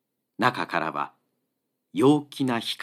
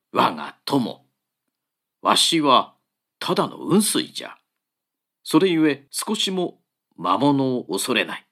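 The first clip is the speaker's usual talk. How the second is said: put-on a lower, cheerful old monk; 3 semitones lower than usual. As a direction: unafraid monk, lightly voiced. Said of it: "快活に答えた". (快活な老僧の声)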